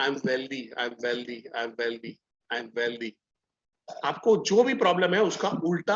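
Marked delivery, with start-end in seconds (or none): 0.1-3.1 soft, low repeated self-talk; quiet low affirmation. Shown as a demonstration. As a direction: murmur it low and softly. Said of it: "हम क्या बोलेंगे". (धीमी, गहरी फुसफुसाती आवाज़)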